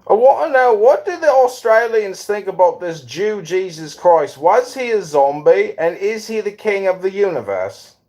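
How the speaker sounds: high, loud mocking questioner. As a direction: pitch it up high and loud, teasing. Mock interviewer to Australians.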